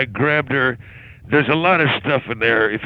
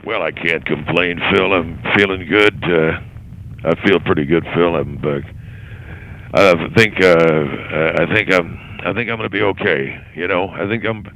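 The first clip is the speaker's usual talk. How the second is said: low put-on voice; 4 semitones lower than usual. Vernon character, low put-on voice.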